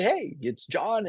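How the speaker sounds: imitating the friend's high, slow, cheery "Hey, it's John"; upbeat video greeting. Mimicking a mortgage-broker friend's livestream opener, high and sing-song. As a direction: pitch way up and stretch out the hello. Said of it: "he just like".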